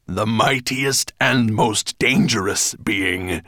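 loud, slow, emphatic dragon correction; interrupting correction. A narrator's reading. Dragon correcting his storyteller, loud and emphatic. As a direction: cut in and stress each missing word. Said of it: "Nettlebrand interrupted".

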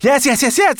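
high, loud, impatient reply; called back. A narrator's reading. Sorrel calling back to the dragon, high impatient shout. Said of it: "the brownie girl called back".

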